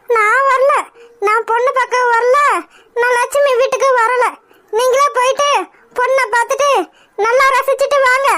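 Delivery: tearful refusal. Acted. Mother refusing her son through tears, crying.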